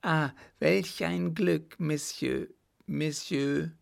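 rejoice at being found; joyful cry. A narrator's reading. Lost girl spotting her rescuer, joyful relief. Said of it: "vor Freude ... rief".

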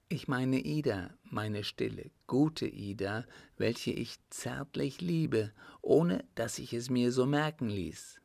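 lightly voiced countess, a touch tender; name the niece fondly in the countess's voice. Countess names the niece she secretly loves, lightly tender.

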